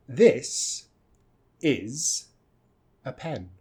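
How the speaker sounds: each word said apart, slowly; slow word-by-word demo. Shown as a demonstration. Teacher spelling out the phrase for students. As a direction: space out this is a pen. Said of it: "That's right".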